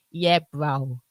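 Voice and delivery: casual South London accent; South London slang. Shown as a demonstration. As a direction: lightly put on South London street talk. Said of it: "we kinda talk like that".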